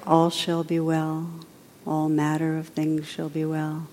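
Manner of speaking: gentle, even meditation guidance; softly led contemplation; guided meditation. Acted. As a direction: guide the listeners quietly inward.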